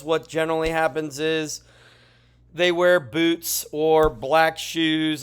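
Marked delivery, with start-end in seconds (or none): 2.5-5.2 yawning. Real, not acted. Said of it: "Sorry, I'm yawning".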